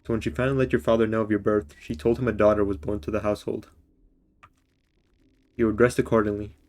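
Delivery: reading voice, calm and even; story narration. Acted. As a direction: narrate the game's backstory like an audiobook. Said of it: "I gotta get my reading voice out".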